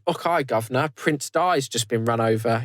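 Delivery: lightly put-on Cockney accent; a touch of cheeky Cockney British; mock British accent, played lightly; British impression. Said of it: "Do an impression of someone from Britain".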